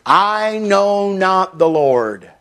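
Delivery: drawn out slowly, each word weighed; slow, grave reading of a chilling line; slow dramatic quote. Shown as a demonstration. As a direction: let the Pharaoh's words hang, slowly. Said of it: "Very bone-chilling words".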